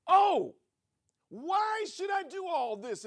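loud exasperated whine, drawn out; whiny complaint. Acted. Weary spouse complaining about thankless chores, loud and whiny. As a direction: throw up your hands and wail it. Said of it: "then it's".

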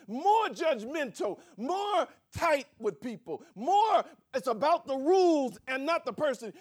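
loud, high, shouted sermon climax; full-force preaching. Acted. Preacher shouting at the congregation, loud and high. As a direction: hammer the point home to the congregation.

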